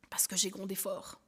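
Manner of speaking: chuchoté, avec remords; aveu chuchoté. Acted. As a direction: murmure cette faute comme un aveu honteux. Aveu de culpabilité dans l'illustration. (chuchoté, honteuse d'avoir grondé son fils)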